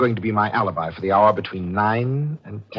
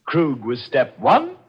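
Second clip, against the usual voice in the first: very slow, pitched-up, measured menace; deliberate menace; 5 semitones higher, much slower than usual. Acted. Killer tells victim her use is over, slowly and menacingly. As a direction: spell out the doom step by step, slowly.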